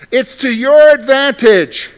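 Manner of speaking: slow, loud and high proclamation; slow ringing pulpit proclamation; proclaimed. Real, not acted. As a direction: announce the key phrase with force. Preacher proclaiming key verse.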